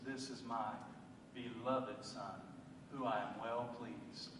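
low, soft and tender, a quiet blessing; hushed voice of God. Retold or imitated. God softly blessing his son in the sermon. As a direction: speak it down gently like a loving father.

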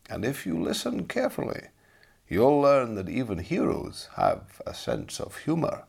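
kindly teller leaning in; old storyteller voice. Acted. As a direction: draw the boy into the tale. Storyteller Master William speaks.

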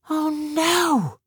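high, shocked exclamation; dismayed cry. A narrator's reading. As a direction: gasp it out in dismay. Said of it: "she said aloud".

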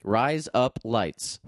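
slow, careful Australian "Rise Up Lights"; slow Australian accent. Shown as a demonstration. The speaker trying the trick on request, slow Australian accent. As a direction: try out "Rise Up Lights" as an Aussie razor blades. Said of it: "Craig, try it".

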